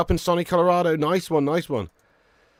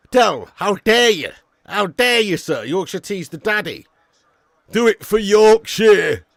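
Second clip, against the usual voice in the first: slow, loud, higher hammed-up indignation; mock outrage; 5 semitones higher, 6 dB louder, slower than usual. Streamer to chat, mock-scandalised over Yorkshire tea slander.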